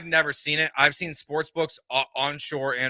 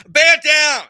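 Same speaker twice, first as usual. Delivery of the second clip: put-on loud, high Boston accent cheer; 11 dB louder than usual. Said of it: "That was like a Boston accent".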